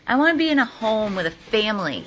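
voicing the dog. Owner voicing her dog's wish for a home. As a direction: speak for the dog, pleading a bit.

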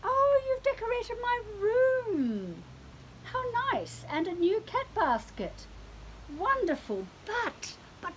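high cat voice, politely puzzled then worried; a pampered cat looking for its dinner; fussy cat voice. Acted.

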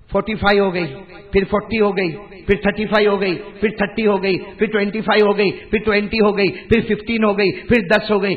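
loud, rhythmic list, each step alike; emphatic countdown. Real, not acted. Preacher counting down the reduced prayers. (زور دار آواز میں گنتی)

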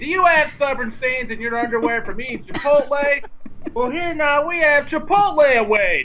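high-pitched infomercial sales yell; Billy Mays. Acted. Friend pitches a stain remover, yelling pitchman impression. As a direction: keep hollering the pitch like a TV salesman. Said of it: "He yells, man".

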